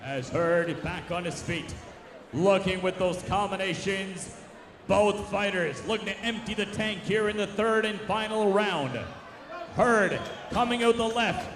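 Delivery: brisk ringside call; play-by-play. Real, not acted. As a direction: keep the round's action moving. Live play-by-play boxing commentary.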